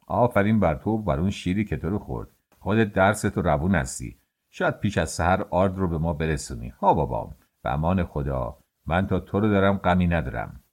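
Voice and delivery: lightly voiced fond master. Master blesses his worker.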